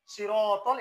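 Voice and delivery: সিরাতাল with a rounded "tol", long middle vowel, rising; correct heavy T. Shown as a demonstration. Teacher models how it must be said, heavy-T সিরাতাল. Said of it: "সেজন্য বলতে হবে".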